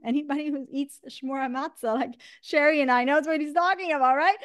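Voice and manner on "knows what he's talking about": usual speaking voice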